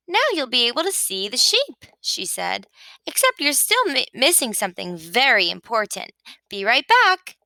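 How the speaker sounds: a hint of a chirpy sheep, quick and eager; lightly voiced Sheep. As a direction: rattle it off like a busy know-it-all. Sheep's voice held.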